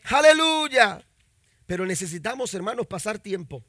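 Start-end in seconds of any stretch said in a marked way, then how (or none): 0.0-1.0 slow, high, loud aleluya; drawn-out hallelujah. Real, not acted. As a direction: stretch the praise out high. Pastor exclaiming after the verse. (aleluya alargado, agudo y fuerte)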